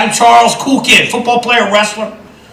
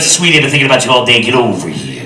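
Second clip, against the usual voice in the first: tag lovestruck husband; 7 semitones lower, 3 dB quieter than usual. Acted. New husband sweet-talking bride.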